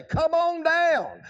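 slow, high "Come on down" like a game show; a hint of a TV host calling contestants; lightly voiced game show host; mock game show host. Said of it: "I started to say".

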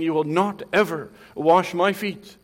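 loud rebuke; rebuking. Retold or imitated. Peter rebuking Christ over the foot washing, loud and scolding. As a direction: scold him as if correcting the master. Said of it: "like he's rebuking Christ".

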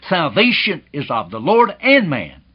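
and hit hard, then falling; preacher imitates man's emphatic claim, stressing and. Preacher mocks man's emphatic creed, and stressed. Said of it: "equally emphatic and says".

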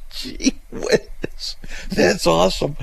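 whispered mock awe; sarcastic whisper. Real, not acted. Host whispering sarcastically at the letter's sign-off, mock awed. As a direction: breathe it out, dry and unimpressed.

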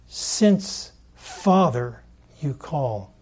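slow fronted phrase, Father set off by pauses; stress on Father. Shown as a demonstration. Preacher showing Peter's word order, emphatic Father. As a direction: lean on Father, pausing before and after it. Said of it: "emphasize it".

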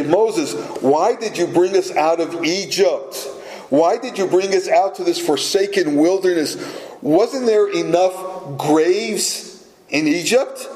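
mildly mocking, complaining Israelites; lightly hammed-up sarcastic whine to Moses; sarcastic grumbling. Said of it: "How sarcastic. How grumbling".

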